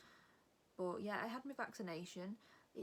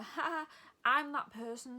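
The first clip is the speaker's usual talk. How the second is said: over-friendly; 6 semitones higher, 9 dB louder, slower than usual. Retold or imitated. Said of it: "'cause I'm overly friendly and over".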